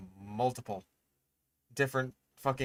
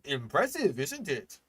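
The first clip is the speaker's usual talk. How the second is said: mocking a know-it-all; 4 semitones higher than usual. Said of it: "that one fucking guy that was just like".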